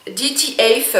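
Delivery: English name in a French accent; mauvais accent anglais. Real, not acted. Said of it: "avec mon accent pourri, euh, d'anglais". (accent anglais approximatif)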